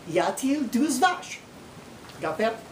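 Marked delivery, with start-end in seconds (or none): 0.1-1.4 "Y a-t-il douze vaches?" with a clear linking T; French with the T. Shown as a demonstration. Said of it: "so they put a T in there".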